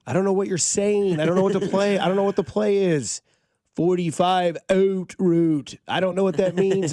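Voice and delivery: high, loud, whiny put-on voice; confused quarterback voice. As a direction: whine like a lost player.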